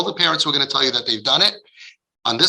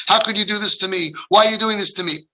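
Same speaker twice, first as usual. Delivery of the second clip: angry complaint; 5 semitones higher than usual. Acted. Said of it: "we get angry at you".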